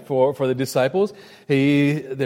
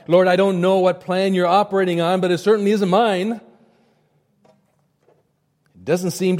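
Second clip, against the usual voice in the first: complaining prayer; 2 semitones higher than usual. Acted. Believer's complaining prayer voiced.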